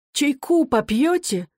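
high, slow, lightly trembling offer. A narrator's reading. Mother offering tea to sons, lightly trembling. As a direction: hide the shake behind a polite question. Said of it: "вздрагивающим голосом спросила она".

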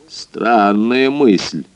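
slow, drawn-out disapproval; disapproving. Acted. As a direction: say it with slow displeasure. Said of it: "неодобрительно сказал Мозес". (неодобрительно, медленно)

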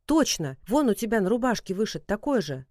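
exclaiming. Acted. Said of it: "воскликнула".

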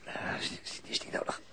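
faint breathy whisper from the ground; hurt man barely managing a question; weak whisper. Acted. Gewond op de kade. (zwak gefluisterd, gewond)

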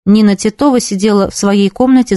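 ordinary delivery

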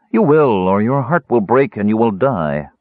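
a cool, matter-of-fact warning; cool and certain. Acted. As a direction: state his fate without pity. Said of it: "she said coolly".

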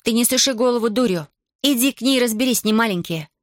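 put-on high, instructive girl's voice; lecturing. A narrator's reading. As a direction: set him straight like an elder sister. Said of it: "назидательно заключила".

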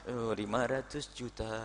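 soft, slow, self-satisfied murmur; mock boastful donor. Preacher mimics a donor admiring his own gift, slow and hushed. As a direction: savor the big sum quietly and slowly.

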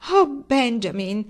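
calm him down gently; coaxing. A narrator's reading. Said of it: "in modo carezzevole". (tono carezzevole e lento)

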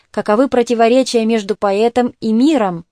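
ordinary delivery

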